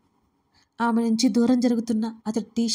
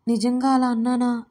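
usual speaking voice

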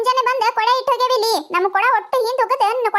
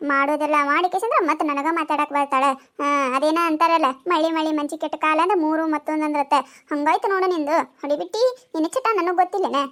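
lower village woman; 5 semitones lower than usual. Acted. Woman scolds with a proverb.

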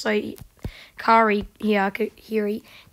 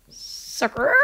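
sucker breathed as a whisper; whispered taunt; 3 dB quieter than usual. Shown as a demonstration. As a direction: hiss the word Sucker quietly.

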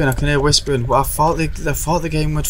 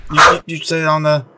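startled alarm; 5 semitones higher than usual. Real, not acted. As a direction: back away, telling it to stay down. Startled by ghost in game.

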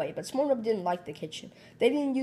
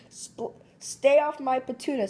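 yelling; 5 semitones higher than usual. Acted. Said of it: "Squidward yelled".

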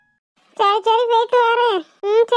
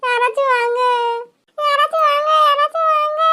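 calling for help; 5 semitones higher than usual. Acted.

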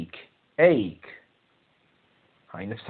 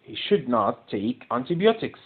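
slow, antibiotics stressed; teacher repeating the sentence slowly to the class, stress on antibiotics; slow dictation; much slower than usual. Shown as a demonstration.

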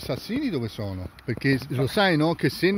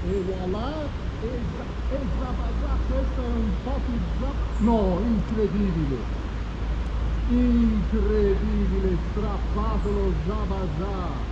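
breathless Italian goal commentary; 3 semitones higher than usual. Real, not acted. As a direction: shout it like a sportscaster. Fishing catch narrated to camera.

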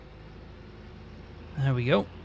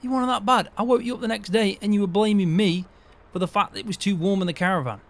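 sarcastic echo; 6 semitones higher, 5 dB louder than usual. Acted. Mocking George's denial back.

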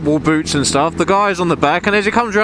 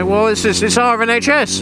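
higher-pitched imitation of moaning critics; mock complainers; 6 semitones higher than usual. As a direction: mimic people fussing, pitch climbing. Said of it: "They sit there and say".

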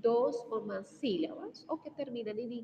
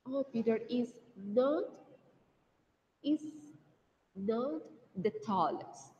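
slow model sentence; slower than usual. Shown as a demonstration. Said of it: "vamos a decir que Peter".

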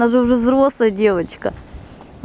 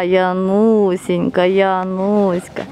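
tender cooing; 3 semitones lower, much slower than usual. Real, not acted. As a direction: coo her name slowly. Cooing to the dog by name.

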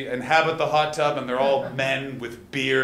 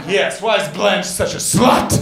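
put-on kid's cheeky question; 4 semitones higher, 9 dB louder, slower than usual. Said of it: "And I said".

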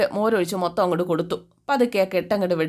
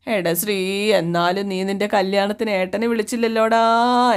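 put-on slow, lightly whiny drunk lament to his brother; mock drunken wailing; slower than usual. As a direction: drag the words out like a weepy drunk. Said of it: "എന്നും പറഞ്ഞിട്ട് കരച്ചിൽ". (കരച്ചിലോടെ പതുക്കെ)

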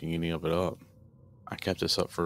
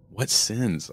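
louder, higher indignant yell; 4 semitones higher, 5 dB louder than usual. Acted. Mother defending her daughters to the demon, indignant yell. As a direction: demand an answer. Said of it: "I yelled".

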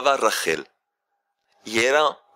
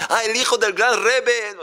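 eager father; 9 semitones higher than usual. Acted. Father guesses again.

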